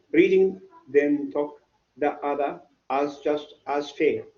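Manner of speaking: reads the line slowly, word by word; slow careful reading. Shown as a demonstration. Teacher reading a poem line slowly to the class. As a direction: spell the verse out slowly for learners. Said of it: "I can say that".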